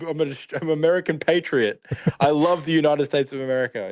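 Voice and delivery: high, earnest fake patriot voice; mock American patriot. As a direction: insist you're American, hammed-up. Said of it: "And he's like".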